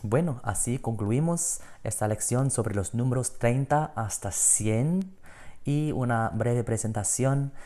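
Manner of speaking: soft Spanish sign-off. Acted.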